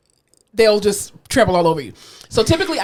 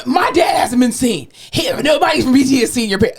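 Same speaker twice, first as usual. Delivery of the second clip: mock outraged daughter, slightly raised voice; guns-a-blazing complaint; 4 semitones higher than usual. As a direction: imitate an indignant relative storming in. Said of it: "come in guns a-blazing".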